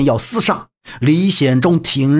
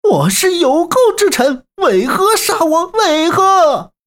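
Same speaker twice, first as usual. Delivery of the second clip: desperate shout; 13 semitones higher than usual. A narrator's reading. Condemned traitor shouts at the general demanding why. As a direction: scream your protest at the executioner. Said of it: "徐老罗大喊道".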